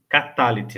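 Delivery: catalete stressed on TA, short final syllables; corrected catalete. Shown as a demonstration. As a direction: put the beat on the middle TA of catalete. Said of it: "na verdade".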